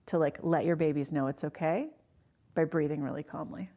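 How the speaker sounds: calm retold coaching, with pauses; utter calm. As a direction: coach someone gently to breathe, as the doctor. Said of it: "it was utter calm".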